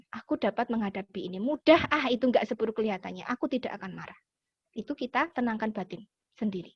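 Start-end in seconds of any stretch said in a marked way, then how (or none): 0.1-4.2 low, self-soothing talk, softening at the end; calming inner voice. Acted. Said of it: "menenangkan batin". (suara batin yang menenangkan diri)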